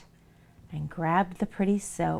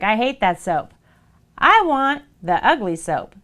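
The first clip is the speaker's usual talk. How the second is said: fussy mother-in-law; 3 semitones higher, 6 dB louder than usual. Acted. Mother-in-law loudly demands the ugly soap, cranky. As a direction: demand it back, loud and cranky.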